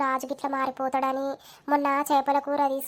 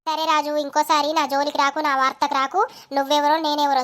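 louder, firm telling-off; angry warning; 4 dB louder than usual. Acted. Latha warns Raju never to come near her again, angrily. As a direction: warn him off, raising your voice.

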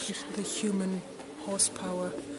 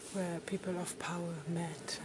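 whispering; 3 semitones lower, 9 dB quieter than usual. Real, not acted. Reading quietly in the gallery.

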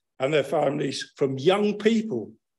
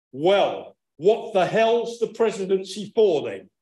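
put-on Texan accent; 3 semitones higher than usual. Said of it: "Now, excuse my Texan accent".

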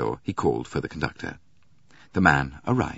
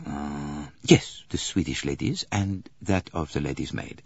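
lightly voiced detective giving halting orders; Poirot, deliberating. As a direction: lightly play the detective thinking as he instructs.

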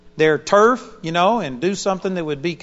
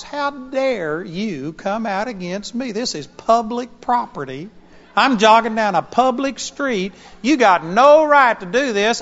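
retold angry yell; 4 semitones higher, 4 dB louder than usual. Jogger yelling at chasing Dobermans, retold with mounting anger. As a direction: scold the dogs like they trespassed. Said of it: "I got mad at those dogs".

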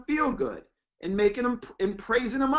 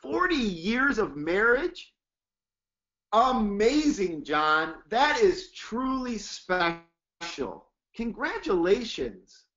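slow admiring praise; slower than usual. Shown as a demonstration. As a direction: stretch each word with wonder. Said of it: "get amped up".

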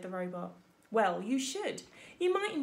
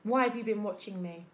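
hissing; 5 dB louder than usual. Acted. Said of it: "voice hissed up from the shadows".

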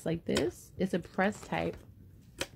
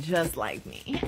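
laughing quote; 4 semitones lower, slower than usual. Retold or imitated. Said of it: "they saying".

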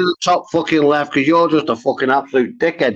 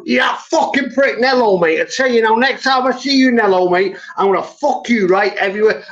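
angry shout; 4 semitones higher than usual. Real, not acted. Angry threat at a chatter.

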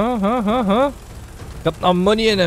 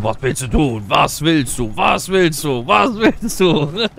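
repeating it, building louder, slowing to a drag; stuck repeating creature; 3 semitones higher, 6 dB louder, slower than usual. Retold or imitated. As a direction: mimic the creature stuck on one line, each repeat more insistent. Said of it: "Todeskralle richtig so".

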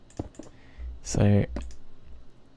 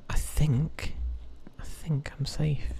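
whispering; 6 semitones higher, 5 dB quieter, much slower than usual. Real, not acted. Relieved, late at night.

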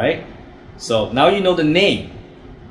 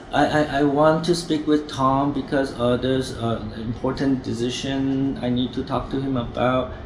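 softer, stammering unsure caller; hesitant wrong way; 5 dB quieter than usual. Shown as a demonstration. Trainer showing the weak way to ask, softer and stammering. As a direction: mumble it like you doubt yourself. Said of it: "very important how you say it".

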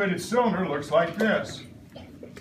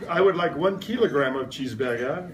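lightly put-on French accent ordering food; playful customer in mock French. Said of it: "you will ask".

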